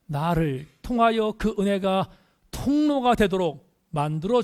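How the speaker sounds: insistent sermon build; earnest, emphatic preaching. Real, not acted. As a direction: press each phrase home to the congregation.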